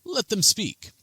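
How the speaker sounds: placating. Acted. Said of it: "waves his hands and says".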